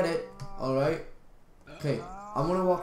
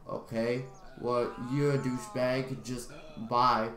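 lower, softer quoted brush-off; deadpan dismissal; 7 semitones lower, 6 dB quieter than usual. Retold or imitated. Himself answering the jerk with chocolate, deadpan dismissal. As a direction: dismiss him under your breath. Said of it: "I'm just like".

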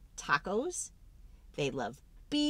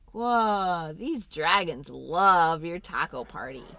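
amazed whoa; 3 semitones lower, 6 dB louder than usual. Acted. Party success.

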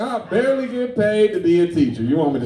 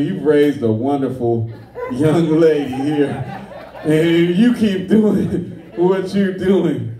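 forced politeness; slower than usual. Retold or imitated. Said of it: "I couldn't bring myself to tell".

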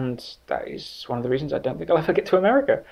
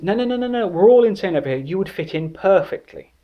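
mock-excited friend, much higher pitch; eager protest; 8 semitones higher, 3 dB louder than usual. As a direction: wave off the doubts in a high, eager voice. Friend eagerly reassures him in retold chat.

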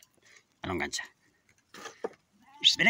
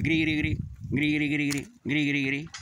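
cricket chirp imitation; slower than usual. Shown as a demonstration. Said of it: "sonaba grillo a medianoche".

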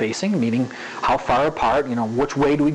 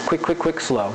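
rhythmic phrasing. Shown as a demonstration. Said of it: "that's phrasing".

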